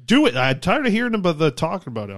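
sharp high shout of frustration; frustrated shouting; exasperated yell. Real, not acted. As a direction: bark it out, fed up. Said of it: "I've been yelling all the time".

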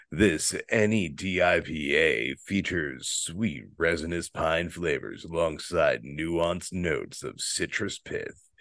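sexy voice. Shown as a demonstration. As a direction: read it like a seductive ad. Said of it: "Did I do it sexy enough?".

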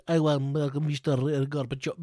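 put-on slow, heavy Russian villain accent; a movie-baddie Russian accent; Russian villain accent, drawn out. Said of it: "we can all do Russian accents".

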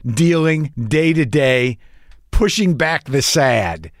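slow, deliberate weary line; a touch of deadpan gloom; wry slow quote. Retold or imitated. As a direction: say it like a motto, slowly. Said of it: "I said".

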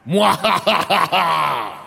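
a slow, hammed-up evil laugh. Putin cackling at himself in the mirror, hammed-up villain laugh. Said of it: "in front of a mirror in the nude going".

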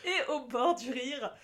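giggly and overexcited; barely holding back laughter; on the verge of laughing. Real, not acted. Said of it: "Comme vous pouvez l'entendre à ma voix".

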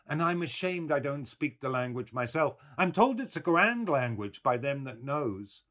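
high-voiced, humble old countrywoman; old milkwoman. A narrator's reading. Old woman admits her ignorance of the language, high and humble. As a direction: lift the voice, apologetic old woman.

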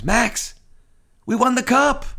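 high, loud burst of joy; excited news. Retold or imitated. A friend texting back that they won the cup, excited and high. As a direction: shout the good news like you can't believe it. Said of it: "He goes".

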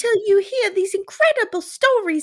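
put-on high, loud, gushing British accent. Host imitating the sweet production company, hammed-up British accent. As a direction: gush like a caricature polite Brit. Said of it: "This production company is British".

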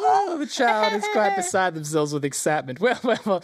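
high-pitched indulgent gnome voice; delighted gnome showman. Acted. Gnome offering the excited child a milkshake, gushing. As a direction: gush theatrically to a small child.

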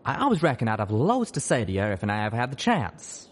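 weary. Acted. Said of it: "he said wearily".

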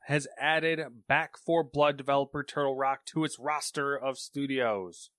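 newsreader voice; news read. Acted. Reads a news story.

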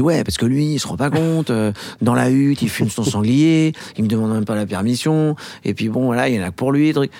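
put-on whiny teen complaining about his friend; teenager voice. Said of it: "je me mets à parler comme un ado". (voix d'ado boudeur)

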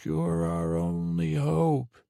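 mock Princess Leia plea; female voice. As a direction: draw it out like a distant woman pleading. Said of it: "a female voice say".

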